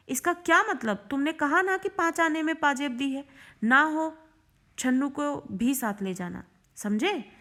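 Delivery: acted exasperated demand; stern challenge. Narrator challenges the boy's excuse.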